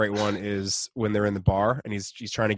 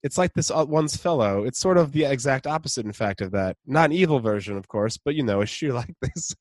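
a hint of a posh British rocker; terrible Aldous Snow impersonation; 3 semitones higher than usual. Aldous at the hotel front desk, light British accent. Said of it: "my terrible Aldous Snow impersonation".

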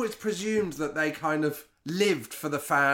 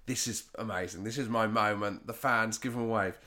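imagined delighted manager; 5 semitones lower, 6 dB quieter than usual. Retold or imitated. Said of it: "you always presume the manager's like".

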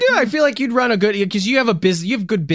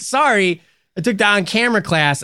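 sheepish self quote; 9 semitones higher, 5 dB louder than usual. Retold or imitated. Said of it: "And I'm like".

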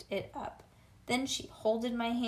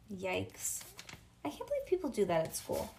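plain reading voice

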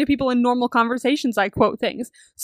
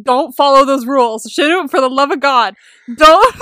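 pleading yell; 7 dB louder than usual. Retold or imitated. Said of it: "sitting there going".

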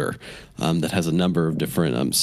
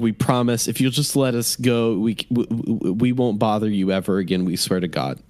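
high, pleading plea for mercy; pleading captive; 3 semitones higher than usual. Acted. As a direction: beg them to let you go.

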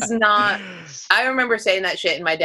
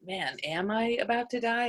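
much softer, mock worried murmur; hushed mock dread; mom's inner worry; 3 semitones higher, 9 dB quieter than usual. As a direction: wonder aloud under your breath. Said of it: "you could see her just being like".

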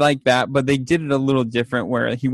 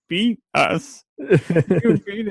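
quoting while cracking up, higher pitch; laughing through it; 7 semitones higher, much slower than usual. Retold or imitated. Teller laughing while retelling Klaus's fake abuse claim. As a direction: giggle through the words.

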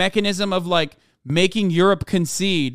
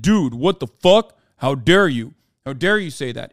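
mock outraged yell; 3 semitones lower than usual. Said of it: "people yelled at me and said".

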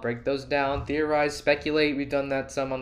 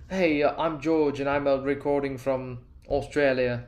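a playful mock Australian accent, half-hearted; 2 semitones higher, 3 dB louder than usual. Host imitating fellow podcaster George's Australian accent, playful. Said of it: "I'd love to have an Australian accent".

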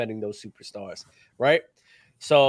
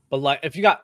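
hiccups between words; speaking with the hiccups; hiccuping. Real, not acted. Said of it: "sorry, I keep hiccuping".

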